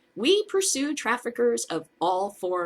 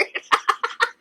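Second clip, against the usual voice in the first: breathless mocking laugh; 4 dB louder than usual. Real, not acted. Laughs at official.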